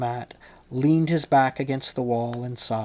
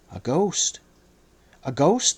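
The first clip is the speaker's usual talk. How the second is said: frightened cry. A narrator's reading. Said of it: "they cried out, trembling".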